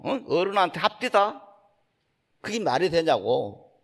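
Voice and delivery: teacher's stern rebuke retold with moderate heat; mock scolding. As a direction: scold a disciple for talking back, rising on 합디다. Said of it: "화를 내시 막 꽉 꾸중하시는 거야".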